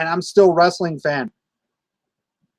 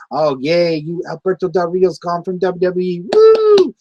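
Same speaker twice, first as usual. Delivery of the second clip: mock gleeful cheer. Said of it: "Every time I get on YouTube".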